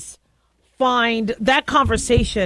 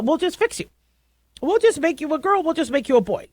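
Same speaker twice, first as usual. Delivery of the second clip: mocking politics; 6 semitones higher than usual. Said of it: "politics got in the way and said".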